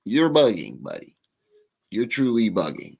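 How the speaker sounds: "bugging" with a careful final -ing; full ING ending. Shown as a demonstration. Commentator telling someone off, "bugging" with full ING. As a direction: sound out the whole ING in "bugging". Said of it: "I gotta say it with an I N G".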